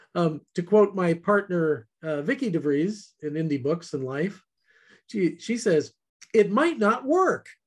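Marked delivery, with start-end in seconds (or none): 6.3-7.3 bright, upbeat, cheery, pitched-up voice. Quoting a partner's saying about trying new things: imitating her cheery voice. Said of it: "in this cheery voice".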